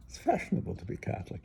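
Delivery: put-on quick, half-whispered British accent; a light imitation of a British accent. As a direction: toss it off fast in a friend's British accent. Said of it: "He said it with a deep British accent".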